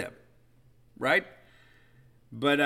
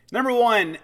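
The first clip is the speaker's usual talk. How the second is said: countdown hype; 9 semitones higher, 7 dB louder than usual. Acted. Countdown announcer builds up.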